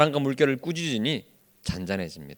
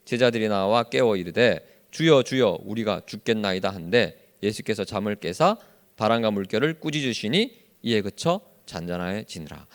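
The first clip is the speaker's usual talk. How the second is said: low, measured Bible reading; recited verse, sinking lower toward the close; scripture reading; 6 semitones lower, 3 dB quieter than usual. Real, not acted. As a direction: read the verse aloud evenly in a lowered pitch. Reading scripture together aloud.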